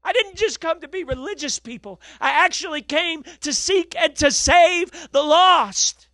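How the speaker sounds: high, slow, earnest voice of God; voicing God. Preacher to congregation, high slow voice of God. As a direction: lift the pitch and slow right down, speaking as God. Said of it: "the heart of God was this".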